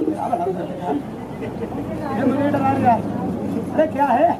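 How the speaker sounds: mock scared. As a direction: act spooked by the monkey, stretching each word. Performer pretends monkey scares him.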